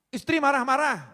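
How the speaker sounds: high, loud exclaim; comic preacher's cry; mock exclamation. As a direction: throw the topic out as a comic alarm. Punchline announcing a new topic.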